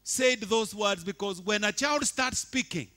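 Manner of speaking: loud, high, sustained sermon delivery; full-force preaching. Acted. Pastor proclaiming resurrection to congregation, loud preaching. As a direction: proclaim it to the whole church.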